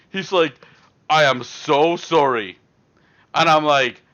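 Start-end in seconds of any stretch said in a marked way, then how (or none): 1.1-2.6 mock apology. Huge guy apologizing.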